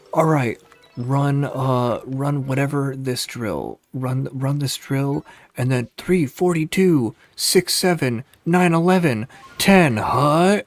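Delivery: high, slow, rising coach shout calling numbers; coach yelling drill calls. Retold or imitated. Mock coach shouting plays at the tryouts, slow and loud. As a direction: bellow the play numbers like a clueless coach.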